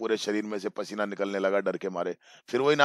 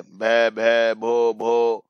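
"भ, भ, भो, भो" stuttered in broken, repeated sounds; stammering; 4 dB louder, much slower than usual. Acted. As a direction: stutter on the first sound of the name. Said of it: "फिर से वो हकलाने लगी". ("भ, भ, भो, भो" हकलाते हुए)

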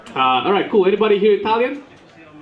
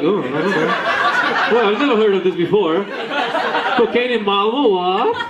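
mock innocent denial. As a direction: play dumb, lightly scandalised. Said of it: "Everybody's like".

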